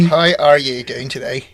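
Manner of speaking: slow mock Irish greeting; lightly hammed Irish brogue; Irish accent impression. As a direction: put on a leisurely Irish accent. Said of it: "the Irish is like".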